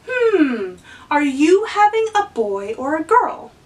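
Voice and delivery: a store clerk asking an expectant mom, lightly acted; playing the store lady. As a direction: ask it brightly like the curious lady at the store. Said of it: "I'll say the line from The Woman in the Book".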